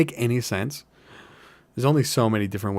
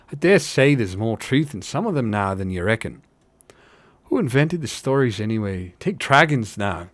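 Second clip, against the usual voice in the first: lightly voiced rustic hobbit; a hint of country-folk gossip; simple working hobbit. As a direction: speak as a simple working fellow.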